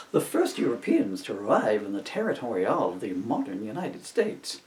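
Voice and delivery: reading while trying not to laugh; the giggles take over by the end; straight-faced read that cracks up; breaking into laughter. Real, not acted. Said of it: "Let's just do it straight".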